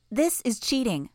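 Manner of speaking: put-on high, slow sing-song little girl; a creepy child promising good behaviour; eerie child.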